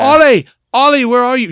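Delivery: high, loud impersonated mother calling her son; yelled call. Retold or imitated. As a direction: holler for a missing child, imitating a film character. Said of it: "She yells".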